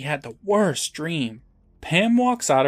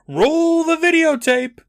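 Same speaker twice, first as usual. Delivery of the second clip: high, loud, drawn-out judge yell; 6 dB louder than usual. Acted. Judge demanding the tape be rolled, hammy yell. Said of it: "The judge yells".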